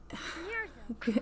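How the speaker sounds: quiet, high sigh; gentle audible exhale; soft sigh. Real, not acted. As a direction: let out a light breath. Narrator reacts between acted scenes.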